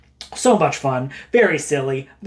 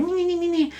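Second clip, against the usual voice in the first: tiny high-pitched creature noises; little goblin chitter; 12 semitones higher, 4 dB quieter than usual. Acted. Little goblins swarming the hero, high chittering.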